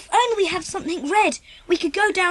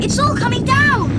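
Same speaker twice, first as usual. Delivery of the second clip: alarmed cry; 5 semitones higher, 5 dB louder than usual. Acted. Landslide onto the railway line.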